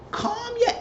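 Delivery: high, slow mock scolding; exasperated order. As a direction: drag out a telling-off to a rowdy friend. Retells ordering Candace to calm down.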